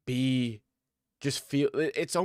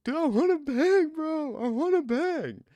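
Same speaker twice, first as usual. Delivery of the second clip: much higher, louder, meathead bro voice; over-the-top fighter catchphrase; hammed-up bro impression; 4 dB louder, slower than usual. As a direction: ham up a dumb hype guy. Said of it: "The Ultimate Fighter".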